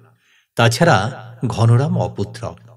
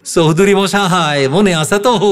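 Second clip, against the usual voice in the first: menacing apparition; 8 semitones higher, 5 dB louder than usual. Retold or imitated. Brother imitates Sripada's apparition reminding him, eerie and menacing. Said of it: "আঙুল তুলে তুলে আমায় বলল".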